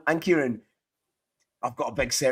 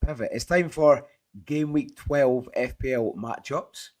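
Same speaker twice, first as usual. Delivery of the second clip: lost voice, hoarse and strained. Real, not acted. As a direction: speak through a voice gone hoarse from shouting. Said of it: "I kinda lost my voice".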